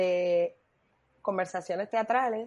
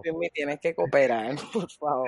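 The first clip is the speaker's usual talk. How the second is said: laughing; 4 semitones lower than usual. Real, not acted. Pide seriedad entre risas.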